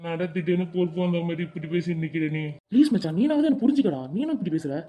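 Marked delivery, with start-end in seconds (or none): 2.7-4.3 pleading. Acted. Sidhu begs friend to understand.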